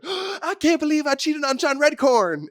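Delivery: high, slow put-on woman's voice, horrified; high and slow, a hammed-up gasp of guilt; mock Nancy voice. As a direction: squeak it out like a shocked cartoon wife. Nancy voiced waking after cheating.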